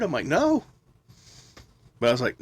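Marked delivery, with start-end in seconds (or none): 0.3-0.6 hyper no. Retold or imitated. Buzzed denial to coworker.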